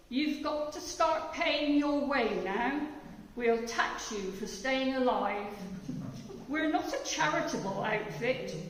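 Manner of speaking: a hint of a smug announcer; poem reading. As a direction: read it as a mock official notice. Reads BBC poem.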